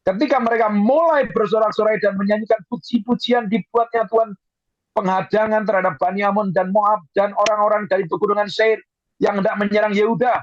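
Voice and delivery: high, declaimed Bible narration; preacher's high-pitched reading voice. Acted. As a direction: read the victory out to the congregation, pitch lifted. Reads scripture with raised voice.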